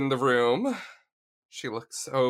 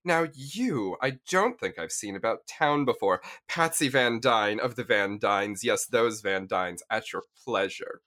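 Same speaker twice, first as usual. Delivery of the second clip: posh femme fatale. Acted. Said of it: "and she says".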